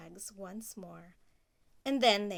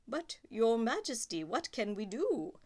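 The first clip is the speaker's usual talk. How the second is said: duke. Acted. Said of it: "asked the duke".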